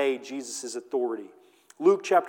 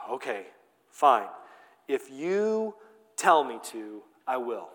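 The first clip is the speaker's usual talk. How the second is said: grudging, tired agreement, lower and softer; exasperated; 4 semitones lower, 3 dB quieter than usual. Acted. Peter grudgingly agreeing to Jesus, exasperated. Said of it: "we see the exasperation".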